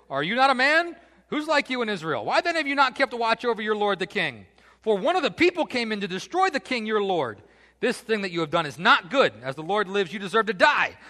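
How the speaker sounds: loud, high shouted taunts; scornful rebuke at full voice; trash talk. Acted. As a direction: berate a guard from a hilltop. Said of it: "David loves to talk trash".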